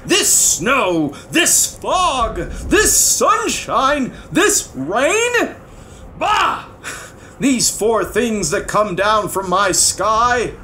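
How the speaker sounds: high, indignant royal shouting; exasperated king ranting at the sky. A narrator's reading. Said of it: "he started shouting".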